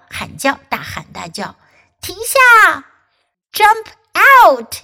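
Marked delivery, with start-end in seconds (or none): 2.0-4.8 high loud shout, jump out now; yelled. Acted. Duck and frog yell at the animals to get out, shouting. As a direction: call them out of the pool fast. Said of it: "yelled duck and frog".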